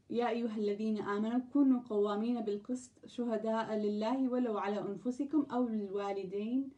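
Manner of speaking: fast, fluent Arabic verse reading; brisk scripture recitation in Arabic; Quran recitation. Acted. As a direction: rattle through the verse in one breath. Reads a long Arabic verse.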